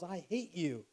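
a touch of a boy's angry outburst, imitated; mild mock yell. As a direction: act out an angry yell without shouting. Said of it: "and he yells".

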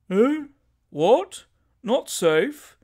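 high, loud startled questions; great alarm. Acted. Shooter told his gun is unsafe, great alarm. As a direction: jump on each question in alarm. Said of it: "in a tone of great alarm".

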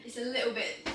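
slipping slightly into a British accent; a light accidental British lilt; a touch of British accent. Real, not acted. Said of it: "I don't know why I'm sounding British".

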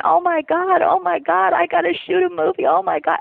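high-pitched mock panic; retold panicked screaming. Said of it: "I'm screaming".

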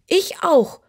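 high, lightly purred kitten voice; purring kitten. Acted. Kitten agrees with the boy, lightly purring. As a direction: purr it like a small cat. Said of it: "schnurrte das Kätzchen".

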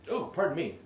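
talking through hiccups. Real, not acted. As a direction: speak between hiccups. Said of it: "I got the hiccups really bad".

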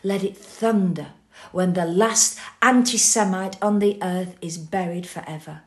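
loud, ringing proclamation; defiant loud vow; thunderous declaration. Acted. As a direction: let it thunder out.

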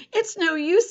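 high, strained out-of-breath voice; panting. A narrator's reading. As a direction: act winded from the chase. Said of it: "Stanley said, panting".

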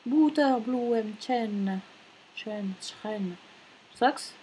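slow, careful German pronunciation; attempted German accent, word by word. Shown as a demonstration. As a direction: sound out the German name slowly. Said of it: "mais en allemand, ce sont les".

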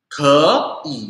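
"ke" rising, then "i" dipping; changed tone. Shown as a demonstration. Teacher repeating the example for learners, rising then dipping. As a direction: give "ke" tone two and "i" tone three. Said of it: "kayak gitu ya".

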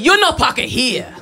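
"You no parker here" in light broken English; mock Asian accent. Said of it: "He said".

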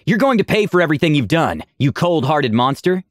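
grab him and spit the threat, half-acted; a touch of a growl. Aura threatening Vitor as she lifts him, mild growl. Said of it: "she growled".

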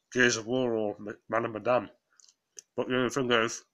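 talking through a mouthful of donut; words round a bite of food; mouth full. Real, not acted. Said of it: "I'm talking with my mouth full".

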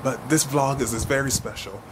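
hushed vlog intro so Mila can't hear; whispering. Real, not acted. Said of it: "I have to whisper because Mila's in the house".

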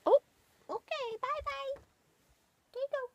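high, loud cooing pet voice; baby talk to pets. Acted. Owner greeting her rabbits in a high cooing voice. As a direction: coo up high at the bunnies.

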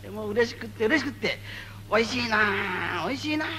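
savoring the chant like fine food. Shown as a demonstration. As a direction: taste each word like a feast. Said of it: "ごちそうをかみしめるように".

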